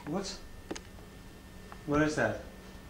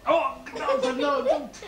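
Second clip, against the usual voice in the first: higher, laughing plea; 8 semitones higher, slower than usual. Real, not acted. Laughing as she fends off the playful doctor. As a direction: giggle out the protest.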